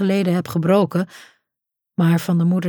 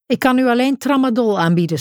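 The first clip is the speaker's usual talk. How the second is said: snapping nurse; 5 semitones higher than usual. Acted. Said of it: "snauwt ze".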